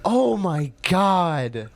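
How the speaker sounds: slow laughing groan of embarrassment; laughing cringe. Real, not acted. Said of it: "this is so bad".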